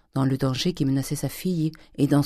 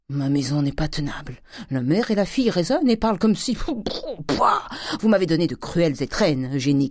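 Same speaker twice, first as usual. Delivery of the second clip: angry cry; 2 semitones higher than usual. Acted. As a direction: rail at the family. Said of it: "cria-t-il". (le père crie sa colère)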